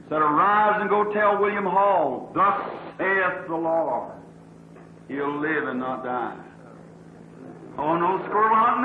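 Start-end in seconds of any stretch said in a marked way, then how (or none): 0.2-6.4 solemn angel's command. Retold or imitated. Angel tells the preacher Hall will live, slow and solemn. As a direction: deliver it like a holy decree. Angel of the Lord gives the message.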